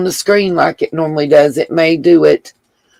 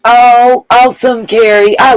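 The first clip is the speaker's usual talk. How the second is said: delighted; 5 semitones higher, 3 dB louder than usual. Real, not acted. Reading a viewer's nice comment.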